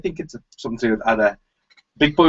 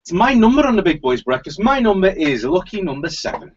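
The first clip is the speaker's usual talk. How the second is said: bingo caller; 7 semitones higher than usual. Real, not acted. Radio host intro, raised voice.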